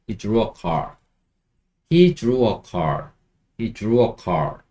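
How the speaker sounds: very slow, every word spaced out; slow model sentence. Shown as a demonstration. Teacher modelling for learners, very slow. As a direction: say it slowly and clearly. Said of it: "이렇게 하시면 됩니다".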